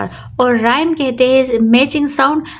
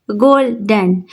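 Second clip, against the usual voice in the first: गोल्डन in two separate beats, गोल smooth and डन stressed; smooth गोल, then put the stress on डन in गोल्डन; stress on second syllable; slower than usual. Shown as a demonstration. Teacher repeating the example for students, गोल्डन stressed on डन. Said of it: "डन पे हम stress डाल रहे".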